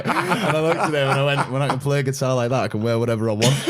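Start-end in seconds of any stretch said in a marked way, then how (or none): 1.5-3.7 laughing comeback. Retold or imitated. Retold comeback to the French guy.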